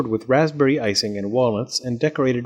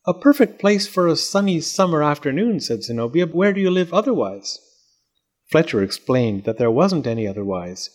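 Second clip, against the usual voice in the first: haughty doll voice; 3 semitones higher than usual. Acted. Zenobia voiced.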